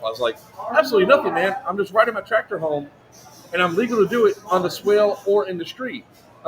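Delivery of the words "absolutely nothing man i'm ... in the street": high, indignant protest. Retold or imitated. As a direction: insist you did nothing wrong, pitched up. Retold defiant answer to deputy.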